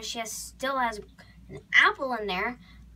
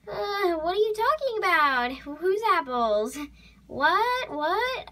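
high, stalling, mock-baffled questions; feigned innocence; 5 semitones higher than usual. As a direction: play dumb when caught red-handed. Caught eating apples, feigns innocence.

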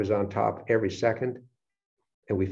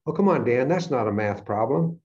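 louder, higher objection from a puzzled audience; mock frustration; 3 semitones higher, 4 dB louder than usual. Audience objecting to the speaker's puzzle, mock frustrated. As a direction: imitate an exasperated participant. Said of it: "making some of you very frustrated".

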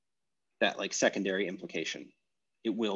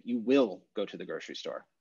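"will" pressed firmly, falling; stress on will; 2 semitones lower than usual. Shown as a demonstration. Teacher voicing a rebuttal, "will" stressed. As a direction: insist it's true with "will". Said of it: "Then it's emphasizing the, the truth value".

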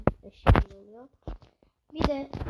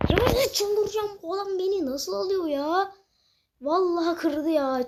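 exasperated; 5 semitones higher, 3 dB louder than usual. Real, not acted. Losing to opponent in game.

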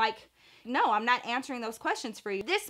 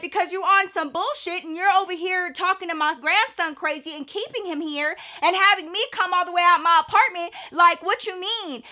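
higher-pitched indignant rant, acted out; heated mock argument, pitched up; retold scolding; 5 semitones higher than usual. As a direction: imitate a mom telling a man off. Retold mom scolding the man.

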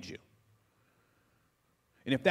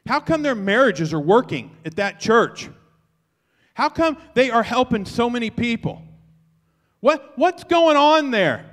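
amazed onlookers; 6 semitones higher, 5 dB louder than usual. Acted. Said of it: "the world will wake up and go".

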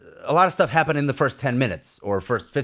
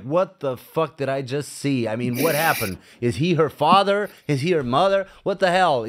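baffled viewer; 3 semitones higher than usual. Retold or imitated. Viewer confused by an arty ending, exasperated. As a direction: throw up your hands at the film. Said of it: "it's like".

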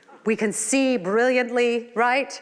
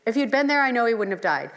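trusting conviction; 3 semitones higher, 4 dB louder, faster than usual. Retold or imitated. The sisters boldly telling Jesus he could have saved him. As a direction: lean into there with firm belief. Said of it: "how Martha and Mary responded".

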